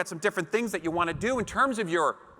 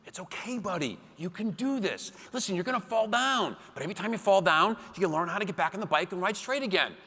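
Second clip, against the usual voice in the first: gentle coaxing; 3 semitones higher than usual. Retold or imitated. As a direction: talk a scared son back onto the bike. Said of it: "I convince him".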